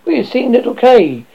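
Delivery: high cooing bird voice; cooing pigeon. A narrator's reading. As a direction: coo it like a little bird. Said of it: "one of the wood pigeons cooed".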